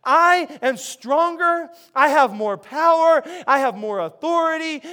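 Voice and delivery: Jesus claiming his power, loud and high; declaring strength. Retold or imitated. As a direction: thunder it out like a champion.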